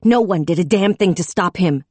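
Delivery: high loud accusing tirade; furious tirade. A narrator's reading. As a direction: blame them all at full voice. Raging at the chief.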